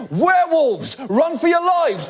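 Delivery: high-pitched mock alarm yell; angry villager yelling. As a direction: yell a panicked warning as a hammed-up villager. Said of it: "sounds like an angry villager running through the town square yelling".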